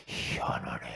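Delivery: 낮게 숨소리로 중얼거리기; 혼잣말로 놀라며 속삭이기; whisper. Retold or imitated. Retold inner wonder. (혼잣말 속삭임)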